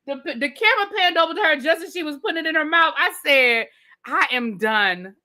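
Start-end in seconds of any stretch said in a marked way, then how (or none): 4.1-5.2 slow, spaced-out verdict; deliberate declaration. Retold or imitated. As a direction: draw out each word for comic finality. Retells own reaction, very slowly.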